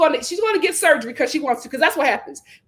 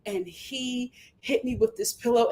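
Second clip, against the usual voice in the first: mock Huda; 3 semitones lower, 7 dB quieter than usual. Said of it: "And Huda's like".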